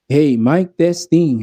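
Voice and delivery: boxed-in mic check, mid-range cut; muffled. Shown as a demonstration. Sound tech showing mids turned down, muffled voice. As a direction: test the mic with a closed-in sound. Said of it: "Parang naging kulob".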